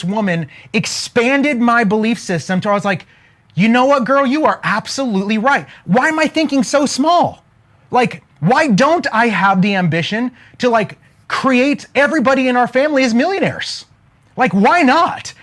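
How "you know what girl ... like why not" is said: excited realization. Retold or imitated. Retelling his excited realization.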